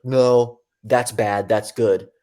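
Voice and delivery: level, matter-of-fact imitation of dad; dad's plain-spoken voice of reason; straight-faced. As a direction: deliver blunt verdicts, lightly deadpan. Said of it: "tell me things with a straight face".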